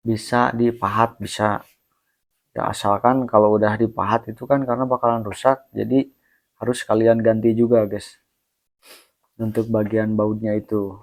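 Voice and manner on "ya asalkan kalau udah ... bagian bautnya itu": drowsy, sleepy words trailing; nodding off. Real, not acted. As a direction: talk like you're about to doze off. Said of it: "gue ngantuk banget".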